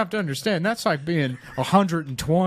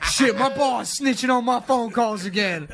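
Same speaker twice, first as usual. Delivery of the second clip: ghetto car salesman; 7 semitones higher than usual. Acted. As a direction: hype the customer like a street salesman. Improvised car salesman bit.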